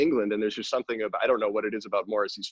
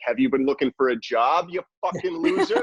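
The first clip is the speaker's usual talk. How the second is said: mock contemptuous form; 5 semitones higher, 4 dB louder than usual. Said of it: "page two is just like".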